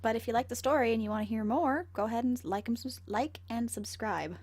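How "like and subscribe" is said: slow. Shown as a demonstration. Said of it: "I need to learn how to slowly".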